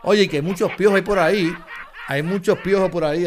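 loud, laughing while talking; cracking up. Real, not acted. Still laughing at joke.

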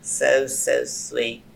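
slow, lightly creepy drawn-out voice; a hint of a creepy cartoon character; Salad Fingers voice. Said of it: "Sound like salad fingers".

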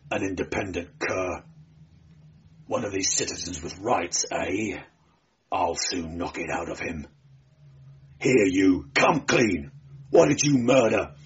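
low sneer rising to a demand; bullying police prefect. Acted. Prefect threatens to beat answers out of barbarian, bullying. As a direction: start low and contemptuous, build to a sharp demand.

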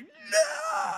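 very high-pitched drawn-out "no"; mock panicked cry. Comic retelling of the earth starting to spin, mock panicked cry. Retold panic as drug hits.

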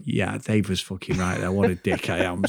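low, quiet self-mocking mutter under his breath; quiet rueful aside to himself. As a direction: mutter it to yourself, half-chuckling. Chuckling to himself at tattoo.

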